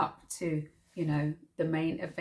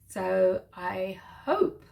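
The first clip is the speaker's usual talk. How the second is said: whisper; much slower than usual. Real, not acted. Coy subscribe request.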